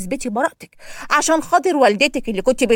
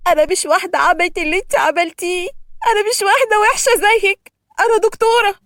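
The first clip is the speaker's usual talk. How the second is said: higher, louder offended protest; indignant doctor; 8 semitones higher, 3 dB louder than usual. A narrator's reading. Hagar insists to Yousra she is a doctor, indignant. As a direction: put her firmly in her place.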